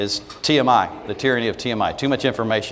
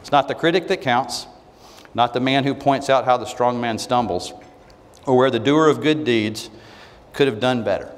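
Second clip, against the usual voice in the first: slow, measured recitation of Roosevelt; reading a famous speech. Shown as a demonstration. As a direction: read it out with weight and pauses. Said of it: "I'm gonna read it so you can hear it".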